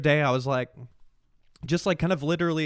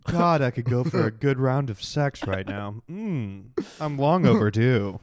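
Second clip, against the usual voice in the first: sex voice; 2 semitones lower, slower than usual. Acted. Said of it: "I can't stop doing that voice".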